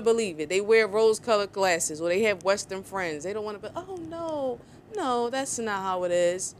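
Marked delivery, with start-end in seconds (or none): 3.8-6.5 mock denial. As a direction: play them as naive and protesting. Mocking those in denial.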